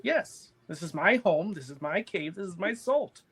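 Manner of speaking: lightly voiced old hag; very old woman.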